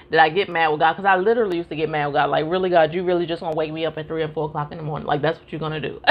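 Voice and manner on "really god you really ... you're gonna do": eye-rolling exasperation. Retold or imitated. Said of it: "really kinda rolling my eyes".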